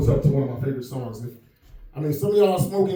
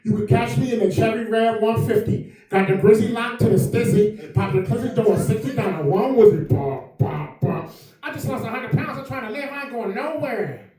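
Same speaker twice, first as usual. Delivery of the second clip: A rapper impression; 5 semitones higher than usual. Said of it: "Y'all remember the rapper?".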